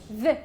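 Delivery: "the" with a voiced TH; hard TH. Shown as a demonstration. Teacher demonstrating hard TH, short voiced "the". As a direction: say "the" short, tongue buzzing at the teeth. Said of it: "Hard T H".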